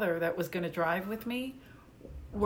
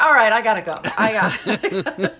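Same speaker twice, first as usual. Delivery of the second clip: loud, laughing brush-off; hasty mock exit; 10 dB louder than usual. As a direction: bail out of the call, loudly amused. Bailing out of friend's conspiracy call.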